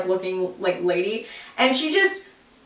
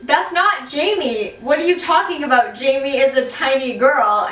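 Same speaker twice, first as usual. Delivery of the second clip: confused protest; 3 semitones higher than usual. Retold or imitated. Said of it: "I'm like".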